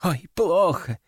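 fret, drawing out the second half; dismayed fretting. A narrator's reading. Lab assistants dreading the consequences, dismayed fretting. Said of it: "побледнели лаборанты".

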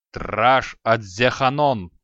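slow, loud barked incantation; roared spell. Acted. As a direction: bellow the spell with all his strength. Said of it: "рявкнул Креол, что есть силы". (громко рявкнутое заклинание)

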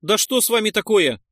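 high, loud exclamation; Нойс exclaiming. A narrator's reading. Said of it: "воскликнул Нойс".

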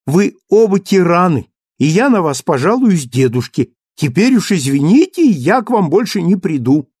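high, loud pretend fury; mock indignation. A narrator's reading. Cosette threatening to leave her father and husband, high and loud. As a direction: storm off in a playful sulk.

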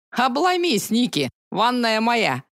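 high, slow teasing gloat. Acted. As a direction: rub the win in. Gloating win.

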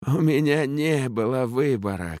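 high, mild sob in the voice; sobbing. A narrator's reading. The captain excusing himself to Ellin with a mild sob. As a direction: plead through a light sob. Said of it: "капитан всхлипнул".

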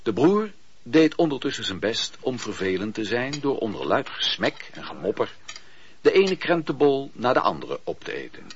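ordinary delivery

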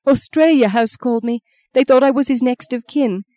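high-pitched, grieving outpour; tearful distress. Acted. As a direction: pour out the awful news, distressed. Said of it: "Maggie heard her sob".

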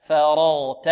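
"فرغت" slowly with a light front fa; "فرغت" with light fa and heavy ra; correct thin fa. Shown as a demonstration. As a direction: sound out "فرغت" for repeating, first syllable thin. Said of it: "انطقوا معي".

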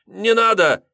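high, loud terrified cry; frightened plea. A narrator's reading. Student pleading with the master, terrified. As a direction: beg him to stop in panic. Student begs after being hit.

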